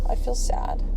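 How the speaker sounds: small, high voice, lightly imitated; quietly voiced child admitting hurt; sad little child. Sniffling son answering his mom, softly sad.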